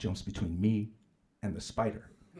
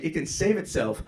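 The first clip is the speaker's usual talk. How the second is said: condescending; 6 semitones higher, 5 dB louder, slower than usual. Retold or imitated. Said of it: "looked at me again like I was stupid".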